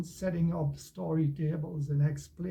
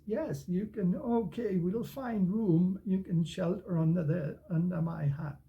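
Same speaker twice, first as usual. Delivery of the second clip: kind cat; 2 semitones higher than usual. Acted. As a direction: kindly let the dog in. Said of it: "So the cat says".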